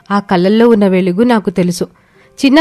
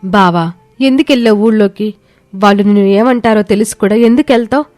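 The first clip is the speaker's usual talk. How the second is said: lightly voiced, comforting wife; consoling wife. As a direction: gently reassure an ailing husband. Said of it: "ఓదార్చసాగింది".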